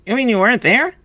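put-on high, incredulous boy's question; high-pitched rising question; chiming in. A narrator's reading. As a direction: chime in with disbelief. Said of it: "chimed Schmitzik".

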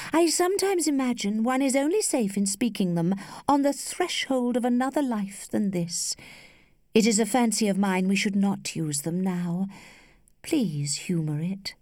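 musing lady. Acted. Lady shares a fancy with her suitor, lightly musing.

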